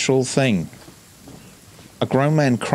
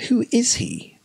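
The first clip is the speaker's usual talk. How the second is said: much higher, eager repeat; squeaky question. Acted. A child pressing the granny with an eager high question. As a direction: pipe it up like a curious kid.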